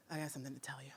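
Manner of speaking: put-on secretive child whispering. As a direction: whisper it like a nervous kid with a secret. Son confides something secret.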